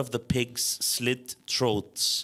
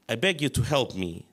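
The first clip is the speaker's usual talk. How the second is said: lightly voiced meek, childlike plea, quick; a hint of a timid child begging; faintly childish, humble plea; submissive childish voice; faster than usual. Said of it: "a submissive and childish voice".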